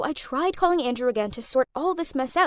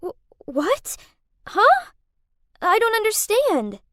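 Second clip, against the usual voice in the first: stammering, higher, bewildered; spluttering confusion; 9 semitones higher, 4 dB louder than usual. Acted. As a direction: stumble over the words in shock. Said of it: "Kath spluttered out".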